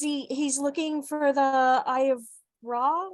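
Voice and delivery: talking around a pen in his mouth; words muffled by a pen held in teeth. Real, not acted. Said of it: "with a pen in his mouth".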